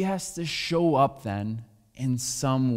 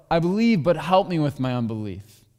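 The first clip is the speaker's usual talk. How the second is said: father crying out; 3 semitones higher, 4 dB louder than usual. Retold or imitated. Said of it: "the Father cries out".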